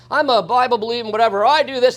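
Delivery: mock lying politician. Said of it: "lie like the politician today and say".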